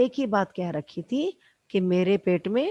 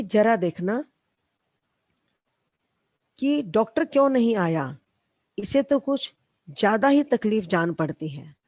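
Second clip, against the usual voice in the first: calling out; 4 dB louder than usual. Retold or imitated. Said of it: "पति को आवाज लगाकर".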